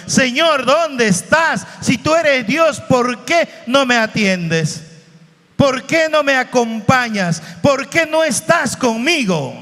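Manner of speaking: high, pleading cry to God; anguished plea. Retold or imitated. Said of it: "nosotros también gritamos eso".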